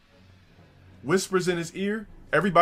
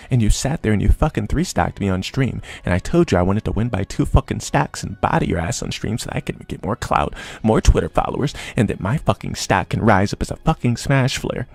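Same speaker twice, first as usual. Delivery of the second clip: loud, furious rant, voice raised throughout; 4 semitones lower, 6 dB louder than usual. Retold or imitated. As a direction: chew him out for ignoring orders.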